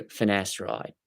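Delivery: "finasteride" with an Aussie vowel at the end; put-on Australian "finasteride"; Australian pronunciation. Shown as a demonstration. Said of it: "That's how an Australian would say finasteride".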